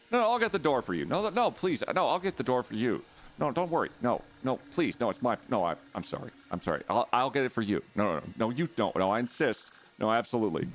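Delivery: mock-polite apologetic back-and-forth; sing-song over-politeness; overly polite Canadian. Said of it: "That's the Canadian standoff".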